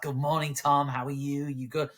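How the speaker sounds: smarmy mock-American boss; American accent. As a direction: put on a gushing American accent. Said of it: "I did an American accent then".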